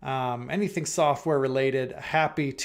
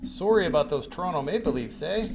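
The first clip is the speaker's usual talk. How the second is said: put-on Canadian accent. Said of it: "just did my best Canadian, impression".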